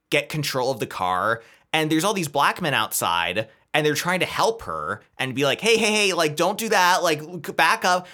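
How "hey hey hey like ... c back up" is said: higher-pitched imitation of alarmed bystanders; mock urgent calling out. Bystanders trying to stop a struggling driver, imitated urgent calls. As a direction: call out a quick warning, half acted.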